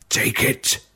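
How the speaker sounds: unvoiced, barely audible dying words; breathless whisper. A narrator's reading. Dying father offers ring.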